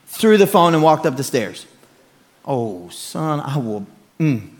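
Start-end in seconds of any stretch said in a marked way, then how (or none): 2.4-4.5 held-back threat. Retold or imitated. Dad holding back anger.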